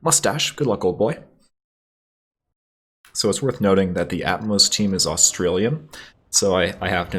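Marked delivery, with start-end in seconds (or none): 0.0-1.2 put-on high old English toff farewell; plummy, hammed-up send-off; Calvert Smythe. A narrator's reading. Officer wishing the pilot luck, high affected voice. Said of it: "his voice returning to a mere dull ache".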